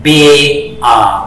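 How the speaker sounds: बे आ said very slowly with आ stretched long; long aa drawn out. Shown as a demonstration. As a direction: hold the आ in बे आ extra long. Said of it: "आ की double आवाज पढ़नी है". (आ को दोगुना लंबा खींचो)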